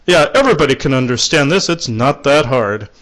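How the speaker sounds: playful mock-obvious. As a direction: tease them gently that it's easy. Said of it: "And he's saying it like that".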